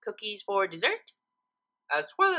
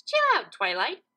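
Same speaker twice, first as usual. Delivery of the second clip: reassuring; 6 semitones higher, 4 dB louder than usual. Acted. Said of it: "Pinkie reassured".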